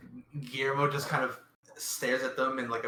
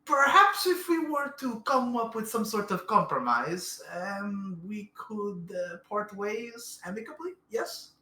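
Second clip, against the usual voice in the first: nervous bargaining; 4 semitones higher than usual. Acted. Character tries to negotiate.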